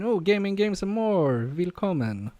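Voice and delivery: bad German accent. Greeting viewers like a German show host, bad German accent. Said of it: "Sorry for the very bad German accent".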